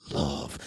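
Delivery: "love" set apart and stretched; "love" held long for emphasis; stress on love. Shown as a demonstration. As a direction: lean on the word "love". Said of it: "sometimes emphasize".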